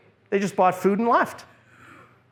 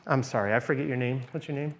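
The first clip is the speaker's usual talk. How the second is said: much softer, gentle and unhurried question; lowered soft voice; 5 semitones lower, 8 dB quieter, faster than usual. Shown as a demonstration. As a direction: turn the volume right down so you don't threaten. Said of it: "Lower your voice, quiet, turn down the volume".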